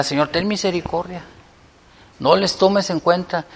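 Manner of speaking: a soft appeal to God; praying for mercy. Acted. Models an honest prayer for others.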